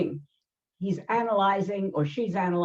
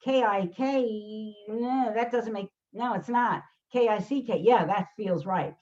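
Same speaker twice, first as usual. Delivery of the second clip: put-on child sounding out. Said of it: "child looks and say".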